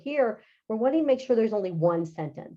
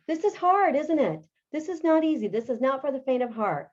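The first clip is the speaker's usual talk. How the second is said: sympathetic; 5 semitones higher than usual. Real, not acted. Sympathising with struggling students.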